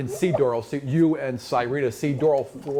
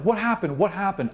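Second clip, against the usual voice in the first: mock confusion; 6 semitones higher than usual. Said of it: "You're all looking around like".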